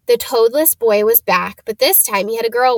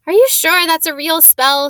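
bossy; 6 semitones higher, 5 dB louder than usual. Acted. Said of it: "She had a bossy sort of voice".

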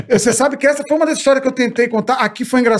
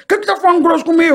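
indignant retort; 7 semitones higher than usual. Retold or imitated. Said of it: "Ele falou".

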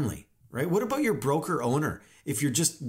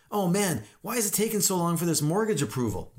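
higher, hurried mock complaint; put-on exasperation, pitched up; whining; 5 semitones higher than usual. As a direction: moan like a harried agent. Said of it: "whining and complaining all the time".

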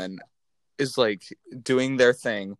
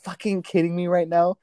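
higher-pitched, livid disbelief; 5 semitones higher than usual. Retold or imitated. Retelling her reaction to transphobic comments, livid. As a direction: demand it in outraged disbelief. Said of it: "that gets me so livid".

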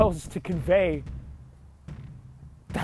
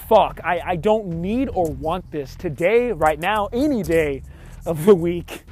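exasperated inner outburst; 4 dB louder than usual. Retold or imitated. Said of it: "in my mind, just like".

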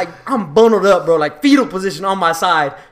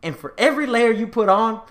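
stern dad; 5 semitones lower, 6 dB quieter than usual. Retold or imitated. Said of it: "he's like".

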